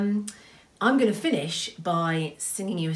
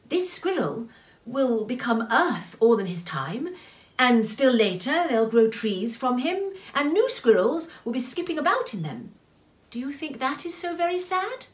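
higher, lilting consoling voice; kindly; 8 semitones higher, 5 dB louder than usual. A narrator's reading. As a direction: console with patient encouragement. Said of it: "said Tooticky kindly".

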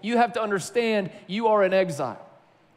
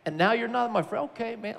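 deflated retold hurt, trailing off softer; hurt and confused; 4 semitones higher, 3 dB quieter than usual. Boy left out of the loop, giving up hurt. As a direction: let the protest sink into mock resignation. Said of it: "I was so hurt and confused and shocked".

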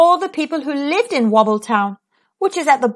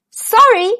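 pretending not to hear; 11 semitones higher, 5 dB louder than usual. A narrator's reading. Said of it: "putting her hand to her ear".

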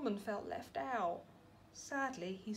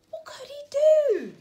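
loud, high worried question; storyteller building suspense; dramatic suspense; 12 dB louder than usual. A narrator's reading. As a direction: ask it to wind up the kids. Suspense as Norman carried off.

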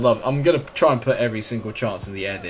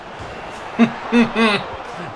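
laugh; 13 semitones higher, 4 dB louder than usual. Real, not acted. Laughs at rival's chance.

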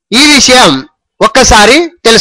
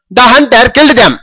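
slow dictation; much slower than usual. Shown as a demonstration. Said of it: "teacher reads model sentence again".

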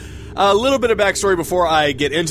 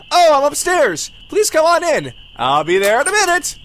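higher lightly voiced homeowner; lady voice; 8 semitones higher than usual. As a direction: play the polite lady upstairs.

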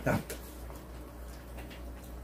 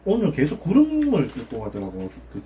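talking between bites; words slightly muffled by food; mouth full, chewing. Real, not acted. Seen 0: Bite taken at -2; jaw and cheeks suggest chewing while talking.

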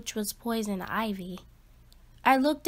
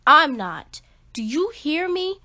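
loud, then pitch rising on the question; defiant outburst; 3 semitones higher, 5 dB louder than usual. Acted. Boy shouts at his family that he won't move. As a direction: demand they listen.

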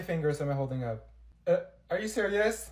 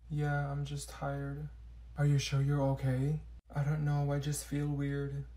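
sad; 2 semitones lower than usual. Pretend. Pretending to be sad.

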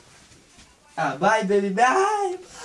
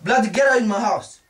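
angry order; 2 semitones higher, 5 dB louder than usual. Acted. Customer orders him out.

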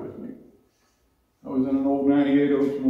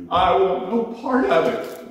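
high, louder fervent cry; retold fervent prayer, higher and louder; fervent plea; 6 semitones higher, 5 dB louder than usual. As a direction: reject it outright, voice rising high. Pleading prayer.

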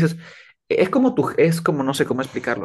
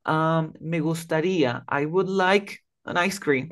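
polite request; 3 semitones higher, slower than usual. Shown as a demonstration. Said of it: "tendría que decir".

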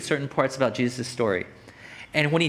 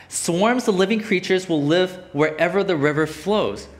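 slow, deliberate verse reading; scripture reading; 2 semitones higher than usual. Acted. Preacher reading the promise of living creatures, slow scripture reading. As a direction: spell out the promise slowly.

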